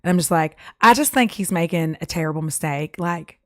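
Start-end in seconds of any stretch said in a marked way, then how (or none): 0.8-3.0 mock dismissed contestant, Southern accent; lightly hammed Southern accent. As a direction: play a rejected Southern bachelorette. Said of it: "like, a Southern accent".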